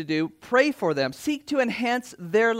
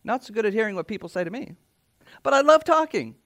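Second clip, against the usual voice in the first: a chatty extrovert gushing; mock extrovert talking up a storm; 2 semitones higher, faster than usual. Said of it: "the most extroverted person in the room would say".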